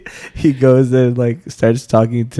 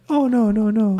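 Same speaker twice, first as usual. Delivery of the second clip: mock coy refusal; 9 semitones higher than usual. Voicing Ling coy refusal.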